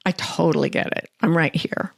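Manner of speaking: gently soothing a frightened part of herself; soothing self-talk. Retold or imitated. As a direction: hush it like a scared kitten. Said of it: "I said, "Oh, you're so".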